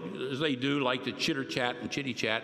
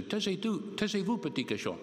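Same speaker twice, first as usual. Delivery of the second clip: mother scolding; 4 semitones higher, 3 dB quieter than usual. Retold or imitated. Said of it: "My mother used to say".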